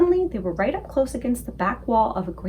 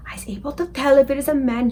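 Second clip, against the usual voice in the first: whisper; 3 semitones higher than usual. A narrator's reading. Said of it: "the B F G whispered".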